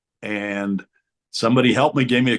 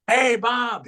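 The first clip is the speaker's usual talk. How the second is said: booming greeting; 13 semitones higher than usual. Retold or imitated.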